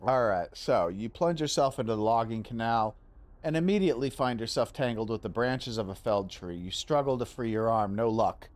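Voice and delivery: low, steady scene-setting voice; game master narration. Acted. Game master describes the canal to a player, steady narration. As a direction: narrate the danger calmly to the player.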